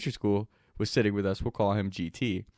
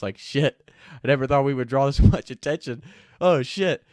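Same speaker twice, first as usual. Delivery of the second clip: nervous laughing panic; 4 semitones higher, 6 dB louder than usual. Retold or imitated.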